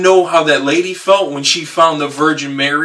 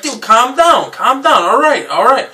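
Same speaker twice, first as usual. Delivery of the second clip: calming shout; 9 semitones higher, 4 dB louder than usual. Retold or imitated. Calming the screaming caller.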